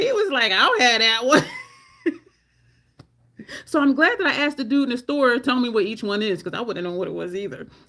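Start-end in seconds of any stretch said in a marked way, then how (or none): 0.5-1.4 loud, sulky, resentful, salty grumble. Retelling a man's reply after he walked off, mock-salty reply. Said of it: "he was kind of salty".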